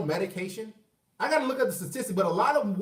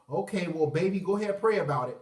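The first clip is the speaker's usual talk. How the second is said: mom's voice; 3 semitones lower than usual. Retold or imitated. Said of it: "you know what she gonna say".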